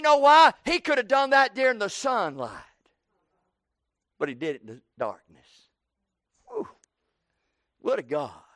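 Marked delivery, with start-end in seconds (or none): 4.2-8.4 hushed awe. Real, not acted. Preacher drops to hushed awe.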